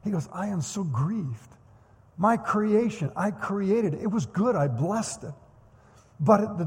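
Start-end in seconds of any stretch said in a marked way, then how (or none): 0.3-5.3 grieved. Retold or imitated. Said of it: "not angry".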